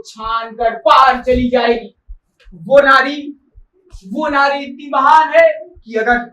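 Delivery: hammed-up, building declamation; imitated loud ranting. Retelling an admirer's loud praise of her, declaiming. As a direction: mimic his impassioned shouting, swelling as it goes. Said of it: "जोर जोर से चिल्ला के कहने लगा".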